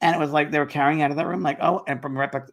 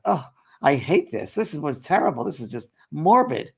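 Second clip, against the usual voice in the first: retold disgust; 2 semitones higher than usual. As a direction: imitate a sister's appalled groaning complaint, drawing out the words. Retelling sister's disgust at wake.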